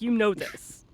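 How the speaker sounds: like a bad mic turning you into a robot for a split second; distorted robot-like mic glitch; robotic glitch. Real, not acted. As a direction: voice breaking up into a robotic digital glitch. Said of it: "you went into robot form".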